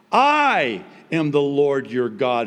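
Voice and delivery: booming "I" opening the declaration; stress on I. Shown as a demonstration. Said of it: "The emphasis is on".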